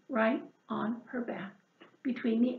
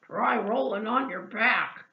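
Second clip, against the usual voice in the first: snorted; 4 dB louder than usual. Acted. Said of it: "snorted Pig".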